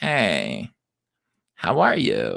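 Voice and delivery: chatty, swooping, effeminate, bright voice. Speaker demonstrates a voice he would try someday: effeminate coffee shop voice. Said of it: "effeminate coffee shop".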